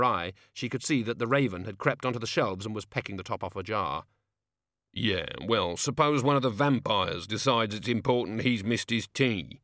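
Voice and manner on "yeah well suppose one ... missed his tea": grumbling. Acted. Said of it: "grumbled Igor".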